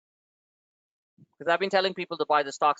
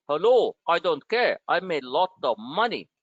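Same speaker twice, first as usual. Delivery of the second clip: imitating Masayoshi Son. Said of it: "making fun of his accent".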